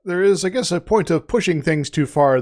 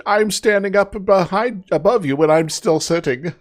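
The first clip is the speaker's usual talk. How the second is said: slightly raised, lightly acted indignation; mock indignant Elagabalus; 5 semitones higher than usual. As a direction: play a put-out emperor, lightly hammed up. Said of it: "oh, so indignant".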